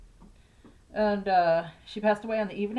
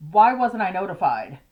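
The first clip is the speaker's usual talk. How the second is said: retold angry question; 6 dB louder than usual. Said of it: "he was pissed".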